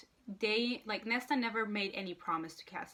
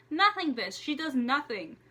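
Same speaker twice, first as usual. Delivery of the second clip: louder, higher, scornful comeback; scornful retort; 4 semitones higher, 5 dB louder than usual. Real, not acted. Reader snapping at the book's question, in scornful anger. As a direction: snap the answer at the page. Snapping back at book line.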